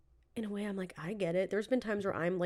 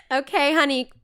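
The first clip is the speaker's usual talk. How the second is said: mocking boho mom; 7 semitones higher, 9 dB louder than usual. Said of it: "she's being so".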